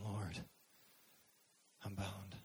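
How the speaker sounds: quietly voiced helplessness; helpless plea. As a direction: act out a resigned little prayer. Voices a helpless prayer from prison.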